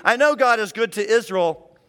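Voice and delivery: proclaiming the expected answer with conviction; dutiful party line. Retold or imitated. Psalmist reciting the correct belief, dutiful and firm. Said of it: "he starts off knowing what the party line should be".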